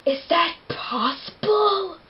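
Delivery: slow, high, whimpery disbelief; a weepy gasp of a question; hammed-up teary shock; mock tearful Bella. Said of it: "she's like".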